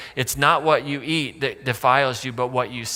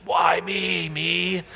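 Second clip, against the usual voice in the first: a touch of mock exasperation; exasperated plea; 2 semitones higher, much slower than usual. Jesus pleading with God about the disciples, mock-exasperated. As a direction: sigh it out to heaven, half-joking. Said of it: "Jesus' ultimate prayer around the disciples".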